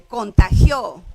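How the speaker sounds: "contagió" lento, con golpe fuerte en "gió"; acento en la última. Shown as a demonstration. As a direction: alarga "contagió" y carga la última sílaba. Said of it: "No puede estar en la tercera". (acento agudo y marcado en la "gió" de "contagió")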